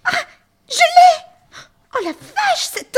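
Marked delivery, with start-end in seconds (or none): 0.0-1.6 high, loud triumphant shout; triumphant cry. Acted. Triumphant catch.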